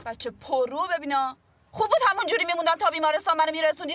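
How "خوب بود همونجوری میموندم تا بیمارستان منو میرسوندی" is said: quick, louder sarcastic rant; fast, loud sarcastic complaint; fast angry sarcasm. Acted. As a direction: rattle it off in irritation.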